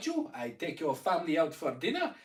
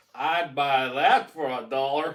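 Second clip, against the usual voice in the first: loud, put-on American accent; 2 semitones lower, 8 dB louder than usual. Quoting a line from a movie, in an american accent. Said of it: "I'll do it in an American accent".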